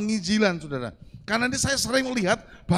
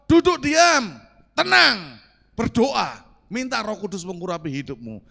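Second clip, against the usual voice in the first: proclaimed scripture; 5 dB louder than usual. Acted. Preacher to congregation, proclaiming the command loudly. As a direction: ring it out like a command from the pulpit. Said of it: "firman Tuhan katakan apa".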